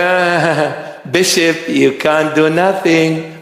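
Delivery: lightly voiced Satan, sneering with a laugh; a hint of a taunting devil laughing at the bishop; mocking Satan. Satan mocks the praying bishop, a light sneering laugh. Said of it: "He said".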